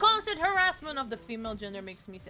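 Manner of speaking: mock outrage. Gamer scolding in jest over harassment, mock outrage.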